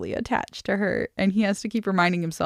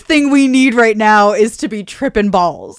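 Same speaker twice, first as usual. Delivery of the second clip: loud, emphatic mock outburst; hammed-up exasperation, voice raised; exasperated; 3 semitones higher, 10 dB louder than usual. The speaker warning they can't be tripping, exasperated.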